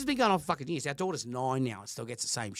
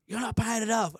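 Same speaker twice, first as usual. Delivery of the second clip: mock ex-wife nagging; 6 semitones higher than usual. Ex-wife complaining again.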